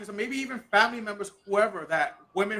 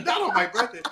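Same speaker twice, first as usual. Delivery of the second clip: laughing; 4 semitones higher than usual. Real, not acted. Laughing repeat of complaint.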